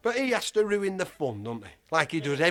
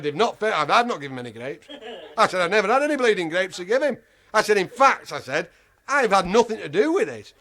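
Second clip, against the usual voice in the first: indignant protest; 3 semitones higher, 6 dB louder than usual. Retold or imitated. Loud protest to keeper.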